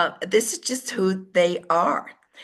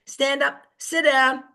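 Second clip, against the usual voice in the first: curt command; 5 semitones higher, slower than usual. Shown as a demonstration. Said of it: "I can say to a D".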